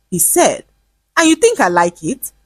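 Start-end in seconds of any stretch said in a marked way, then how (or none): 1.1-2.3 sharp angry retort; snapping. Acted. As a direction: snap back at him. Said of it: "she snapped one day".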